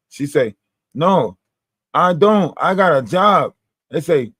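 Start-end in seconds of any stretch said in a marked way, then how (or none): 0.9-3.5 indignant denial. Retold or imitated. Acted back-and-forth with TikTok woman.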